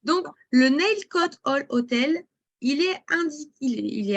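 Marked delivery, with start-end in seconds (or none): 0.5-2.2 slow English name in a French accent. Real, not acted. Presenter returning to the hotel's price, slow French-accented English. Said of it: "admirer mon magnifique accent anglais".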